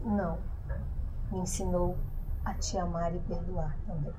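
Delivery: soft, low, tender reply; gentle answer. A narrator's reading. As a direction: answer quietly, with pauses between phrases. Condemned mother's gentle final answer.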